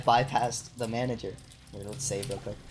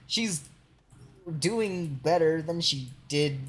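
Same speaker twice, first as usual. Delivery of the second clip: higher, slow, drawn-out wording; careful retold hedging; 4 semitones higher, slower than usual. Correcting the retold update to security, slow and hedging. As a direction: pick the words slowly, as if hedging. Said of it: "I didn't say it like that. I'm like".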